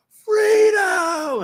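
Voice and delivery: long, high battle cry; Braveheart yell. Retold or imitated. Man quitting his job yells like Braveheart, loud and high. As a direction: yell it out like a film hero. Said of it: "I yelled it just loud".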